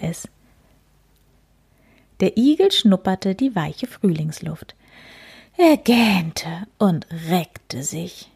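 put-on gentle read-aloud for children; story reading. A narrator's reading. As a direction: read it like a bedtime picture book. Reads picture book aloud.

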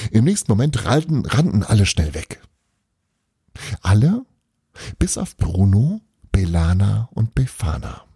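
expressive storyteller with deliberate pauses; story narration. A narrator's reading. Narrator telling of an ice-sculpture contest, storytelling. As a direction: read it out as a story, lingering between phrases.

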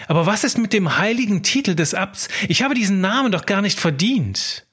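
anxious scribe. Acted. Scribe alone at night, doubting himself, worried inner voice. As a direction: fret as the scribe who fears being found out.

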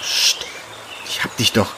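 whispered, soothing hush; calm her without being heard. Acted. Hushing her while hiding.

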